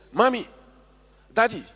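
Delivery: put-on high, pleading child's cry for her parents; dying girl screaming. Dying girl begging her parents in a high child's cry. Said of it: "she was screaming".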